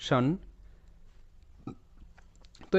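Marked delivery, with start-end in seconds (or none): 0.1-0.3 শন as "shun", vowel midway between "shan" and "shon". Shown as a demonstration. Teacher corrects against two wrong readings, শন with an in-between "shun" vowel. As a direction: say শন short, with a neutral middle vowel. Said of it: "মাঝামাঝি একটা sound".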